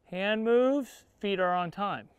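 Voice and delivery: "Hand moves, feet are on time" said in one even beat; on-time timing demo. Shown as a demonstration. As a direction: feet land right with the hand. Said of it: "timing of his feet to my hands".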